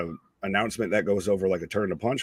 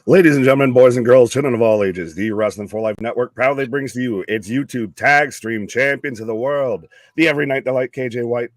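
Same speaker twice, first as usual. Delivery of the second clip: ringmaster; 8 dB louder than usual. Acted. Introduces cohost circus-style.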